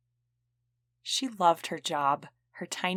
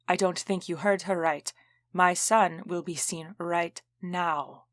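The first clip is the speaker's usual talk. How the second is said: threatening tone. Acted. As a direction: lay down the law slowly, menacing. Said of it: "The tone of her voice turned threatening".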